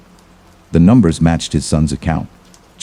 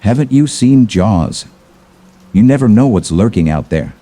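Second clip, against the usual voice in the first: half-joking warning; 4 semitones higher than usual. Acted. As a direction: warn him half in jest.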